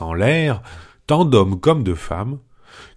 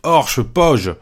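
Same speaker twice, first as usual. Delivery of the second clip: terrified flight cry; 5 semitones higher than usual. Acted. Panurge begging the crew to flee, terrified. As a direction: shriek Fuyons as if the ship is sinking. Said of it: "Panurge s'écria".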